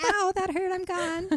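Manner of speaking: very high, squeaky pretend demon yelp. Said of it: "I'll be like".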